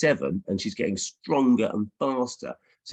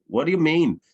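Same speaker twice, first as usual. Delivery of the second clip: puzzled publisher; 8 semitones higher, 5 dB louder than usual. Retold or imitated. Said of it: "then they said".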